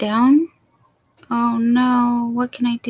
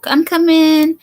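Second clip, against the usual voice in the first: calling out; 6 semitones higher, 6 dB louder than usual. Real, not acted. Answering doorbell, calling out.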